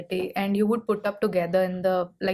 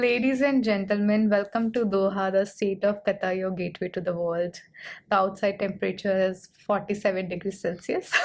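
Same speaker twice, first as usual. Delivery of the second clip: cabin crew announcement voice; polished in-flight welcome announcement; flight attendant. Shown as a demonstration. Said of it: "I want to hear your cabin crew voice".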